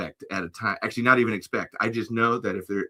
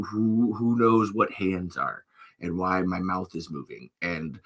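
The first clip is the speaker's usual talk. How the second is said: mock guru; 3 semitones lower than usual. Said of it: "That whole accent turn".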